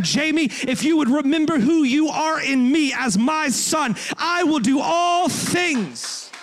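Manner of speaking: high, loud preaching shout, building; God shouting a promise to Jamie; God's booming promise. Acted. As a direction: proclaim it as God, rising and roaring. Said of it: "God said".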